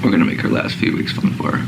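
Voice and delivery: "we're gonna make her last few weeks fun for her" breathed out, voice failing; choked-up near whisper. Real, not acted. Owner vowing to spoil his dying dog, choking up. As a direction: hold back tears and let the words go voiceless. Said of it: "I got emotional".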